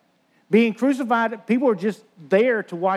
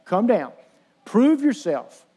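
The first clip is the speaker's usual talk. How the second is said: goading taunt; slower than usual. Retold or imitated. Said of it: "Tempting him".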